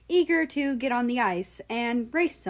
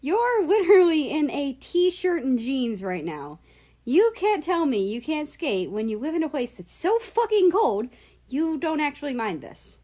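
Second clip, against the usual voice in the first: higher, louder disbelief; incredulous; 7 semitones higher, 5 dB louder than usual. A narrator's reading. America mocks Russia's t-shirt, loud and high. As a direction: pile on the teasing.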